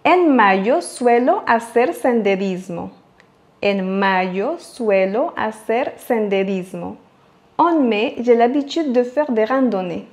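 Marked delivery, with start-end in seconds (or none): 0.1-2.9 slow model reading; slow model sentence. Shown as a demonstration. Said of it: "voyons maintenant un exemple". 3.6-7.0 softer repeat. Shown as a demonstration. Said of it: "voyons maintenant un exemple".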